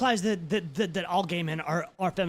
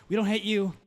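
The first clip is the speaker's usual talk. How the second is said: George Takei; 3 semitones lower than usual. Retold or imitated. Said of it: "George Takei came on".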